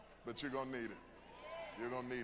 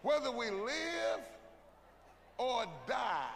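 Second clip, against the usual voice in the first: proclaiming shout; 4 semitones higher, much slower than usual. Acted. Preacher proclaims slowly.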